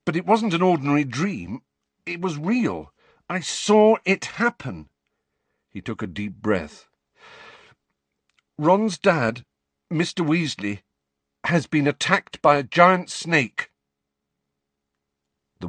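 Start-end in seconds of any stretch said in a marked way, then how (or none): 0.1-4.9 Harry, urgent. A narrator's reading. Harry urgently explaining his dream. 8.6-13.7 Harry, urgent. A narrator's reading. Harry telling of the attack.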